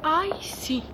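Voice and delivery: normal talking voice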